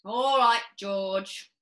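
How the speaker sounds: a touch of a pressing father; father pushing George, lightly voiced; stern father. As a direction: demand an answer. Mr Cranky questions.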